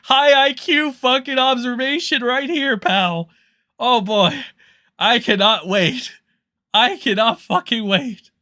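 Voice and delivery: loud, high, hammed-up hype; mock eager viewer. Streamer mimics viewers awaiting his hot take, mock excited. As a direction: sarcastically gush with overblown anticipation. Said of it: "and I'm sure you're".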